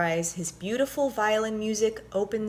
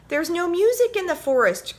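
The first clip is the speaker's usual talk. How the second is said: mild grumble; 11 semitones higher, 5 dB louder than usual. A narrator's reading. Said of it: "grumbled Burly Bear".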